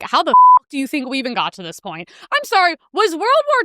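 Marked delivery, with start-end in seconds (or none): 0.0-2.1 sudden angry yell. Retold or imitated. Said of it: "I'm like".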